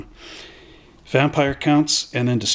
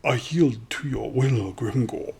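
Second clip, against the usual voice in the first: a touch of meek surrender, softer; submissive elf; 5 dB quieter than usual. Retold or imitated. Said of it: "And he's like".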